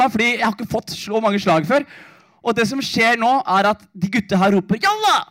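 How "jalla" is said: high retold call to charge; imitating the boys' high shout; mock battle cry. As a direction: call the gang in, pitched up high. Boys shout to attack.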